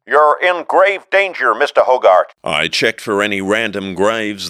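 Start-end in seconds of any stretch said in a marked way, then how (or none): 0.1-2.3 higher, louder tiny shout; squeaky holler. A narrator's reading. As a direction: warn urgently. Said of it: "squeaky little hollering voice".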